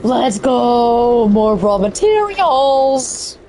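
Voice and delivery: real voice crack on a slow line. Real, not acted. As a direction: let the voice break as it stretches out. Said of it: "Voice cracking".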